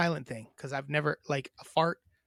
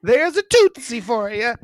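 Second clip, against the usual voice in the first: cutesy voice; 6 semitones higher, 9 dB louder, slower than usual. Pretend. Mock-cute fart comment.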